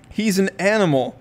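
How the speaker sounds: loud tearful accusation; sobbing. A narrator's reading. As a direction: cry it through sobs. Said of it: "Gret sobs".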